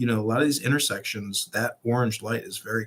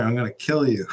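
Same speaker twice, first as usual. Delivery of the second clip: laughing mock threat. Dad's threat retold.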